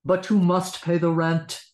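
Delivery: loud, stern villain demand; sneering panto villain. Shown as a demonstration. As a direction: press the debt like a panto villain. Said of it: "Back to Snidely".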